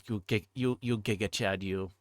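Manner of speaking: ordinary talk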